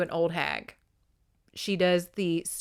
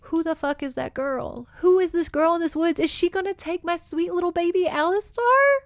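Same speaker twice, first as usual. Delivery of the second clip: worried outburst; 9 semitones higher than usual. Real, not acted. Fretting over the book plot.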